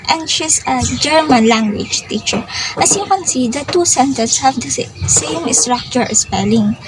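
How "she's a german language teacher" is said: "German" punched, "language teacher" following lighter; stress on German. Shown as a demonstration. Teacher showing her nationality is the focus, stress on "German". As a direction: lean hard on the word "German". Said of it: "the word German is the wor".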